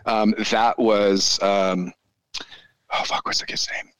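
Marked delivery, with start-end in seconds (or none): 2.9-3.9 muttering to self. Real, not acted. Searching memory aloud for a name.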